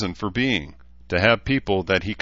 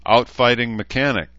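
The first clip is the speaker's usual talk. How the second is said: acerbic; 4 semitones higher, 6 dB louder than usual. A narrator's reading. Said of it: "Danae said acerbically".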